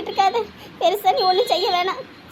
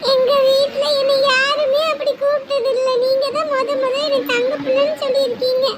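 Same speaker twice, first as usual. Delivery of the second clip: moved and happy; 3 semitones higher than usual. Acted. Child telling aunt nobody called them that before, delighted. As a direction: say it happily, ready to giggle.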